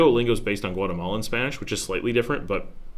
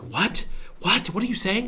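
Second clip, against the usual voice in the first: higher-pitched, baffled questioning; mock confusion; 10 semitones higher than usual. Learner failing to catch everyday Spanish, mock confusion. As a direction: act out not catching the words. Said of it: "I won't hear it. I'll be like".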